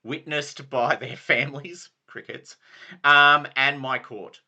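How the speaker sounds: lightly voiced knightly lord; Sir Brastius. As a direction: proclaim like a ceremonial knight. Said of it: "this is Sir Brastius saying this".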